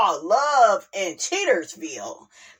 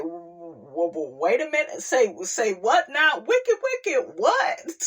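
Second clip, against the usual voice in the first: stunned disbelief. Retold or imitated. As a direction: imitate Melody thrown completely off guard. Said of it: "Melody like".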